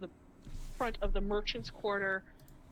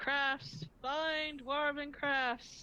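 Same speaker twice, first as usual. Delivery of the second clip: drawn-out, pitched-up hawker's call; 6 semitones higher than usual. Voicing a dwarf vendor calling out for business: dwarf merchant calling out. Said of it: "You see mostly dwarves calling out for business".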